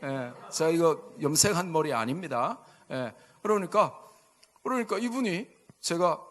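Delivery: ordinary talk, nothing marked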